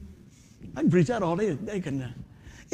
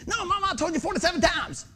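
mock exasperated; 10 semitones higher than usual. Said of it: "Why am I yelling".

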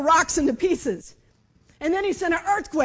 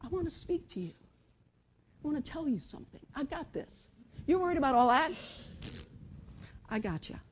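very soft, hushed reassurance; quiet voice of God; 7 dB quieter than usual. Acted. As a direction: speak gently, almost whispering. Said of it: "he spoke quietly".

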